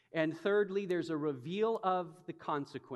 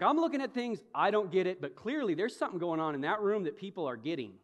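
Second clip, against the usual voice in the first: puzzled curiosity; 4 semitones higher, 5 dB louder, faster than usual. Retold or imitated. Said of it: "And I'm like".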